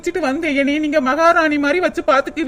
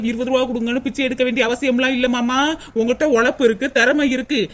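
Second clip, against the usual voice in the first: ordinary talk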